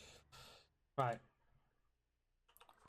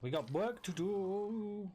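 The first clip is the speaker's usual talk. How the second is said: psyching myself up; 8 semitones higher, much slower than usual. Acted. Psyching up after come on.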